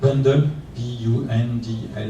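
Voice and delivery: Bundle said slowly, then spelled out; slow, careful repeat of Bundle. Shown as a demonstration. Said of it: "Say it slower".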